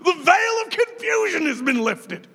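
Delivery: high, ringing mock-joyful cry of relief; hammed-up delight as the fog lifts; relieved exclamation. Pastor acting out seeing clearly again, joyful exclamation.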